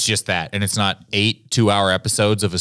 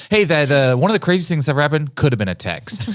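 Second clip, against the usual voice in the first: laughing; 6 semitones higher, 3 dB louder than usual. Retold or imitated. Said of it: "I'm like".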